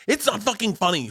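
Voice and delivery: very high mock fury; berating. Mother to daughter over a joke, high berating. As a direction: imitate an exasperated mother at the end of her rope. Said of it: "berated her".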